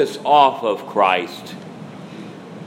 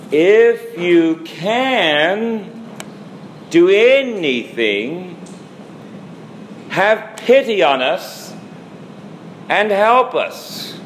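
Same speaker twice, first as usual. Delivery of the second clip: raised, slow, pleading plea; pleading father; 6 semitones higher, much slower than usual. Retold or imitated. A doubting father begging the Lord for his son, pleading. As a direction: beg for help like a desperate father. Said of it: "he's pleading".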